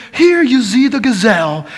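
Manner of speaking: lightly put-on British accent; a hint of British nature-show narrator. Preacher imitating a cool British guy on nature shows, light British accent. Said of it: "that's my best British accent".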